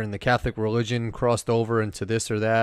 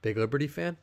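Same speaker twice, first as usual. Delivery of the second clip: imitating a sarcastic waiter; mildly sarcastic question, a little softened; 3 semitones higher, 4 dB quieter than usual. Waiter needling a New York Liberty fan at the diner, sarcastic. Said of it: "very sarcastically, he goes".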